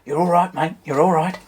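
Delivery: hammed-up Australian crocodile-hunter impression; bad Australian impression, big catchphrase; Steve Irwin. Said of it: "the late crocodile hunter and his signature catchphrase".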